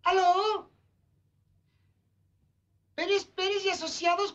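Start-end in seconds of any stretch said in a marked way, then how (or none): 0.0-0.7 put-on boy faking a secretary's voice; put-on woman's voice, phone answer; man doing a woman's voice. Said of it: "intenta hacer voz de mujer, pero es la voz del chavo".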